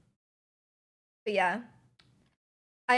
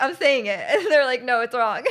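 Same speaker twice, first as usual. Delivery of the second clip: mock exasperated argument; 6 dB louder than usual. Acted argument over pronunciation.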